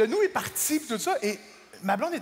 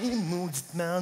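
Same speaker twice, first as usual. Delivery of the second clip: slow sulky grumble; slower than usual. Retold or imitated. Sulking man grumble.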